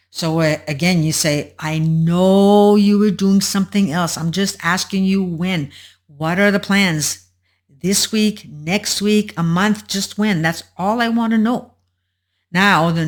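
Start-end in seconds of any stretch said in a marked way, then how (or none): 1.6-11.7 mildly exasperated pleading, stretched opening; acted fluster. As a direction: act worn down, pressing for a simple answer. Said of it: "you're getting pretty flustered".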